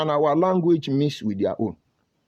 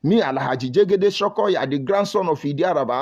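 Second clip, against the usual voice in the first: mock Yoruba praise; 2 semitones higher than usual. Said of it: "you will hear them talk like".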